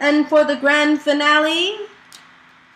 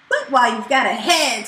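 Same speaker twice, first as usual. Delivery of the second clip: snapping; faster than usual. Acted. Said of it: "snapped Snide".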